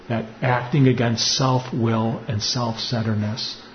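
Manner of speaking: slow, measured preaching voice; solemn reflection. Acted. Priest closing his homily with a slow solemn teaching. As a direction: lay each phrase down gently and slowly.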